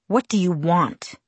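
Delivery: slow, annoyed. Acted. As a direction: ask it irritated and slow. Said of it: "sounding annoyed".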